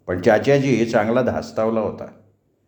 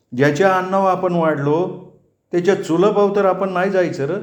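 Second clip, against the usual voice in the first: put-on a worried elder begging the boy to be humble; pleading old Chachaji; 4 semitones higher than usual.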